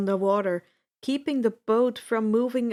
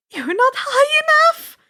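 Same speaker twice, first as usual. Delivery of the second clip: high, loud urgent call; 10 dB louder than usual. A narrator's reading. Friend yelling a warning from the boat, loud and high. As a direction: shout it up over the roar. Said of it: "Annabeth called".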